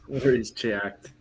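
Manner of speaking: drawn-out New York "Warriors shocked"; half-joking New Yorker voice; New York accent. Pretend. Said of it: "It's like a New Yorker".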